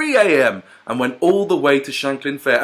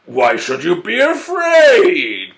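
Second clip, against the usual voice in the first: panting exhausted; 10 semitones higher, 5 dB louder, much slower than usual. Acted. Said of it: "panted the exhausted wolf".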